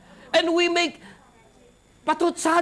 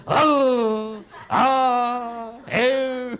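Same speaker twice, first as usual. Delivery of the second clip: mock gorilla grunts; 3 semitones lower, much slower than usual. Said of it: "Godzilla, gorilla".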